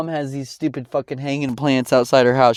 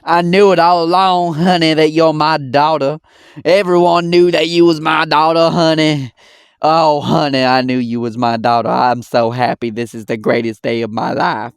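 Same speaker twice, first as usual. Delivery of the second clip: mock gushing mother; 3 semitones higher, 4 dB louder than usual. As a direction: gush like a mother suddenly claiming her child. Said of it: "now she's all happy".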